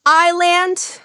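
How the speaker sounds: "Island." as EYE-lund, no s; silent s. Shown as a demonstration. Teacher repeats the model, "Island." without s. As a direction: start "Island." on the I sound. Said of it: "The first sound is like your I".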